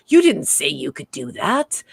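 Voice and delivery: mock incredulous, swinging down then up; Picard, taken aback. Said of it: "when Picard said".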